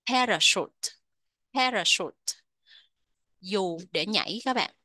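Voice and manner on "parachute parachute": "parachute" with an SH sound in the last syllable. Shown as a demonstration. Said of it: "đọc thành âm sh". (đọc "Parachute" với chữ ch thành âm sh)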